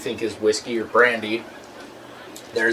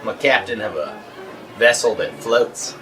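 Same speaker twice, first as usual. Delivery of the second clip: lightly Australian pilot; a hint of Aussie captain, unhurried; Captain Drake Savage. Pilot explaining his job to a stranger, lightly Australian. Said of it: "big Australian hand".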